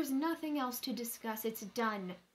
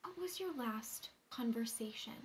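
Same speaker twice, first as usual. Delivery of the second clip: insistent whisper; 5 dB quieter than usual. Acted. Pressing the question again.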